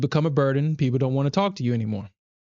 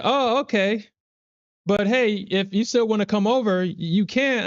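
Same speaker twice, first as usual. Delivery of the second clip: mock scammer; 7 semitones higher than usual. Voices scammer insisting on invite.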